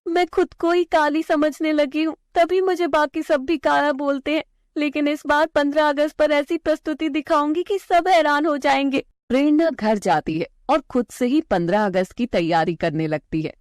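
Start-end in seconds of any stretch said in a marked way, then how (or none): 0.1-9.1 put-on determined little girl. Girl vowing to herself to amaze everyone, high determined voice. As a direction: promise yourself you'll surprise them all.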